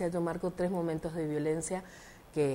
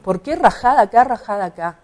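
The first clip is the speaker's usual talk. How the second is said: indignant retort; 2 semitones higher, 12 dB louder than usual. Retold or imitated. Retold clash with election official.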